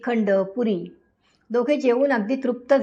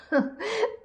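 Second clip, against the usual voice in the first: sob; 9 semitones higher, 6 dB quieter than usual. Acted. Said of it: "अभय रडायलाच लागला".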